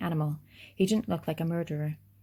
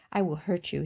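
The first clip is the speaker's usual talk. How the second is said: matter-of-fact. Acted. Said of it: "as a matter of fact".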